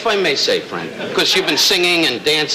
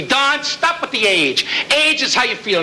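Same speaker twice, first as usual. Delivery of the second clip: warmth and love; 6 semitones higher, slower than usual. Retold or imitated. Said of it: "with warmth and love".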